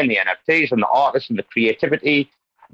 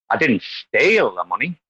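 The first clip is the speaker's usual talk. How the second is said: "steal" drawn out and weighted; slow down and lean on "steal"; long, emphatic "steal", the rest plain; stress on STEAL; 2 semitones lower than usual. Shown as a demonstration. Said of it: "with five different, like, word stresses".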